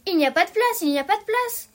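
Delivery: loud, high protest at the newcomer; shouted. A narrator's reading. The March Hare and Hatter shout at Alice, loud. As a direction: cry out together to keep her away. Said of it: "crièrent-ils en voyant Alice".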